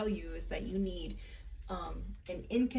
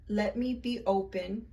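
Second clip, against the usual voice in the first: slow, earnest recital of a spell; incantation recital; slower than usual. Shown as a demonstration. Leading viewers in the incantation, slow and earnest. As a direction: say each line as a solemn spell. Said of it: "repeat after me".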